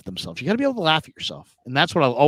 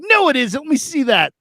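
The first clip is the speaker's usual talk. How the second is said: mock wife; 10 semitones higher than usual. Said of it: "wife voiced in story".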